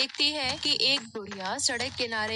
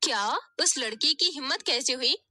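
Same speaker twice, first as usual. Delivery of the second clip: fast, higher whiny complaint then outrage; complaining then indignant; 5 semitones higher, 4 dB louder than usual. Acted. Daughter tells mother on her sister, indignant. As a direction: stir the mother up.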